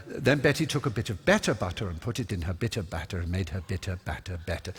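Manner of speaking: measured, careful tongue twister; slowed-down recital. Retold or imitated. Pupil reciting for coach after slowing down, measured and careful. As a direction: finish it evenly and distinctly. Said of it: "eventually I would learn to say".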